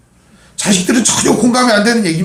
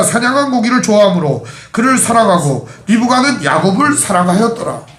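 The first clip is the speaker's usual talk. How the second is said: scripture reading. Acted. Reads scripture aloud.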